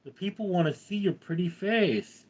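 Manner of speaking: high-pitched coaxing of a pet. Real, not acted. Streamer to Bear about showing off, high coaxing voice.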